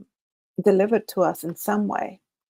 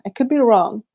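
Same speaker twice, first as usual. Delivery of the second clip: a touch of a dim, dopey voice, slightly higher and louder; mock slow-witted human; 3 semitones higher, 5 dB louder than usual. Vlogger mimics how aliens hear humans, mock dim voice. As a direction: play the slow human aliens imagine, lightly. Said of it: "This is how I think they see us".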